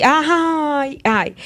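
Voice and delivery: imitated woe-is-me moan; mock victim. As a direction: play the victim with an exaggerated "ai". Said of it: "se colocam na cadeira da vítima".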